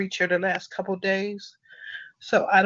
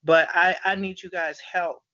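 choked up. Real, not acted. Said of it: "now I'm getting emotional".

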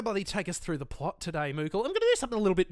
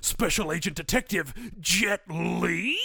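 trailer announcer hype; movie trailer voice. Shown as a demonstration. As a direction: pitch it like a trailer. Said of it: "I'm gonna try and do my best movie voice, uh, impression".

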